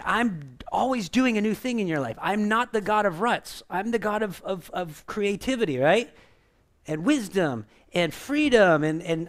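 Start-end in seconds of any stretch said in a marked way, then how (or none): 0.0-5.8 higher, louder preacher's voice of God; voicing the Lord. Pastor voices God to the congregation, raised and proclaiming. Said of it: "the Lord is trying to say".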